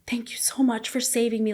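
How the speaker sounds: half-whispered, lightly mimicked crying; imitated tearful thanks. Husband thanking wife for saving him, imitated crying. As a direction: imitate a choked-up thank you. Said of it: "he's crying, sobbing on the phone".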